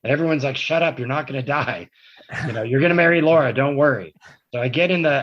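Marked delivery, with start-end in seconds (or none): 0.6-4.1 higher and louder, brushing off his fears; half-laughing shout of "shut up, you'll be fine"; retold loud reassurance. Paramedics telling the crash victim he'll marry Laura, loud mock reassurance. Everyone reassuring injured him.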